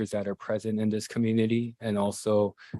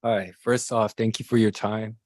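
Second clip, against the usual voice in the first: nervous, slightly trembling voice; shaky voice. Real, not acted. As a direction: voice wavering a little with nerves. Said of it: "Sorry, my voice is shaking a little bit".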